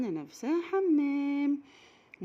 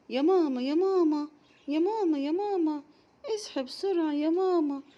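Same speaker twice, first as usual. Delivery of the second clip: put-on high, louder child calling out; calling mama; 5 semitones higher, 5 dB louder than usual. Little Raghad calling her sleeping mother, loud high child voice. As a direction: wake mother up with repeated calls.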